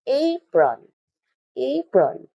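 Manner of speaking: Apron said high and clearly for the class; slow modeled word. Shown as a demonstration. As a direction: model Apron as the teacher does. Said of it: "A forms a syllable".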